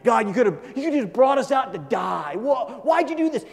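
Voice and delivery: loud, accusing yell at God; ungrateful Israelites shouting their grievance; complaining shout. Acted. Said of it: "they're going".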